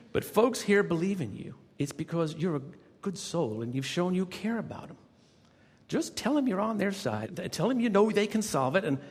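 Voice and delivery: put-on high, emphatic Southern accent; Southern accent, lifted and insistent; Jodelle. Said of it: "she had this wonderful Southern accent".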